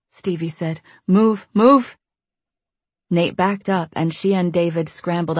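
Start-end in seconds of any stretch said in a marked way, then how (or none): 1.1-2.0 urgent. Acted. Urging up ladder.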